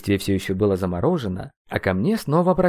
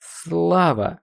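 higher, wavering call; trembling voice; 7 semitones higher than usual. A narrator's reading. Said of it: "обратился я к прошлому себе дрожащим голосом". (дрожащим голосом)

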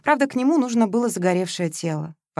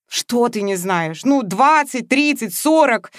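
pressing questions; 5 semitones higher, 5 dB louder, slower than usual. Acted. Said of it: "допытывалась Вероника".

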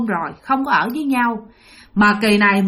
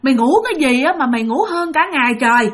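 lightly voiced upset mum, higher pitched; worried scolding mother; 5 semitones higher than usual. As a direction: fret and scold like an anxious mother. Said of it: "mẹ bạn mới hỏi rằng á là". (hơi giống giọng mẹ trách móc, lo lắng)

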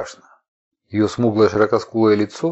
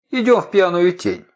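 cracking voice; 9 semitones higher than usual. A narrator's reading. Aliyat suddenly announces to Ar-Sharlakhi, voice cracking. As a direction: voice cracking, pitched up high. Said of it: "срывающимся голосом объявила".

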